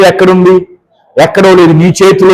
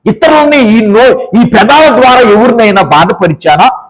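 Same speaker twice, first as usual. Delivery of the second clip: confession prayer. Acted. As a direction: pray it humbly, voice sinking toward the end. Preacher leads a confession prayer. (క్షమాపణ కోరే ప్రార్థన స్వరం)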